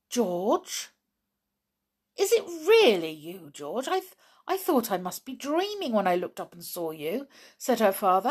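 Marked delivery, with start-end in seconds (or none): 0.1-7.3 astonished. Acted. Father astonished to see daughter.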